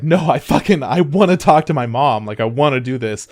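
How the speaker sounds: mildly heated protest; retold emotional plea. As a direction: act out her getting worked up. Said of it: "she gets really emotional".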